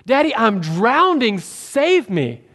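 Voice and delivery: hammed-up child crying for rescue; little boy voice. Nephew calling to his father from the water, mild mock boy's scream. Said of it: "screams in this little boy voice".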